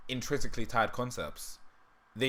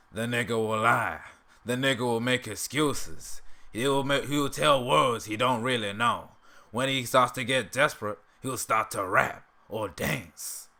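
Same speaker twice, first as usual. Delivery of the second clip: Uncle Ruckus impression; slower than usual. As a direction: preach slowly like a self-hating old bigot. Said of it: "the Uncle Ruckus impression".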